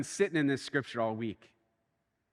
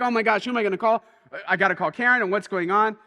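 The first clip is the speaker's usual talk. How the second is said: retold panic; 5 semitones higher, 4 dB louder, faster than usual. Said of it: "And I'm like".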